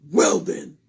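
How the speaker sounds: loud pompous doctor; Doctor Bumble pronouncing; Doctor Bumble concluding. Acted.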